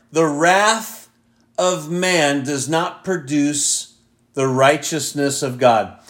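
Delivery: "The wrath of man" set apart by a pause, then slow and deliberate; emphasized repeat. Shown as a demonstration. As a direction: drive home "does not produce" at a measured pace. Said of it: "I always want to emphasize that last part".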